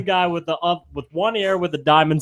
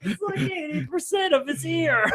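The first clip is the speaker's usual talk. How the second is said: laughing; 9 semitones higher, 6 dB quieter than usual. Real, not acted. Reacting to gruesome ear photo.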